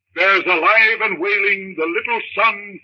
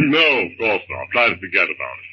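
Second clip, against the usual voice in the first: calm his frightened wife in a deep voice; husband's voice; 12 semitones lower than usual. Acted. John to wife.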